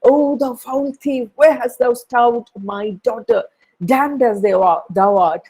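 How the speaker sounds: outraged father accusing Othello of stealing his daughter, high and fierce; angry accusation. Acted. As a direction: hurl the charge at the thief. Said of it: "Brabantio is trembling with anger".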